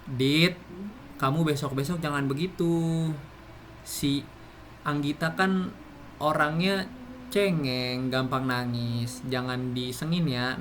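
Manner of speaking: calm, unhurried advice to a friend; mild demo of a patient, soothing telling; gentle advising. Shown as a demonstration. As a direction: talk a friend round kindly, no edge. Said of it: "maka intonasi yang kita gunakan intonasi rendah".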